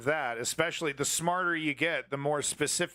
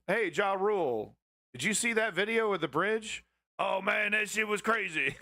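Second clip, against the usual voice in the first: a lightly voiced higher grumbly rapper; hint of a grumbly rapper, pitched up; rapper impression; 5 semitones higher than usual. Streamer mimicking a rapper's reaction, higher and grumbly. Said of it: "I tried to do the rapper".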